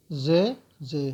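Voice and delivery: زے drawn out slowly with a clear z; slow, careful teacher's demo; slow letter demo. Shown as a demonstration. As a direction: say زے slowly so the class hears the z. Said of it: "آواز کیسے نکلے گی".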